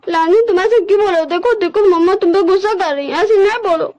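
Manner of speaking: high, wavering, urgent begging; frantic, pleading Wing. Acted. Wing begs mother not to shout at Lanjan, frantically pleading. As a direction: beg desperately, words tumbling into repeats.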